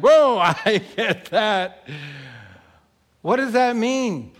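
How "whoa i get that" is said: put-on child's voice. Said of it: "A six-year-old in the throne room would be like".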